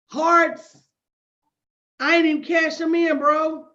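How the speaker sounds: loud, incredulous clapback at a heckler; indignant call-out. Real, not acted. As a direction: raise your voice and roast him. Calling out a heckler live.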